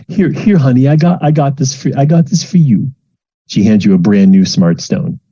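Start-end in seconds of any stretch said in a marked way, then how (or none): 0.1-2.9 high, fluttery offering; eager mother giving a gift; fussy mom. Acted. Mom handing her child a gift, high and fluttery. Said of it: "your mom goes".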